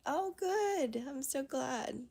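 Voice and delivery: real happy surprise, bright and loud; excited. Real, not acted. Happy reply to a viewer.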